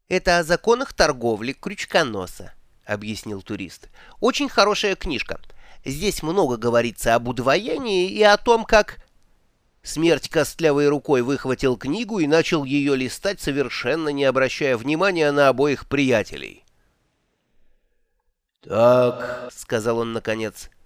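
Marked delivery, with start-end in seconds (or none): 0.1-9.0 высокий восторженный голос туриста; радостно рассказывает о любимой книжке; восторженный турист. Acted. Два Цветок объясняет книгу. 18.6-19.5 весомый голос Смерти. Acted. Смерть подытоживает.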